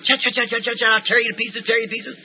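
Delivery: chattering chipmunk. Retold or imitated. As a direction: mimic a tiny angry chipmunk scolding. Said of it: "a little chipmunk sitting there going".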